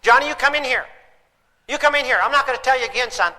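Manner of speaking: mock a frustrated dad calling his boy inside; yelling parent. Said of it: "How many times you ask your kids".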